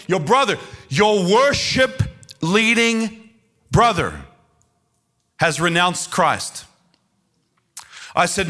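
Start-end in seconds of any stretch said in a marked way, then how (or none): 0.1-6.6 slow, emphatic cry of disbelief; imitated screaming mother. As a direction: hammer out each word as a distraught mother. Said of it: "She's screaming".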